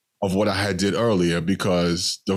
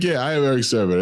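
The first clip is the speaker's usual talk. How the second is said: a rapper impression; 4 semitones higher, faster than usual. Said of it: "I was like".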